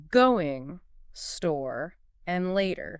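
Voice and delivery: "going", "store", "later" each stressed, set apart by pauses; emphasized content words. Shown as a demonstration. Teacher listing sentence stresses, emphasis on "going", "store", "later". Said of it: "the natural emphasis would be on".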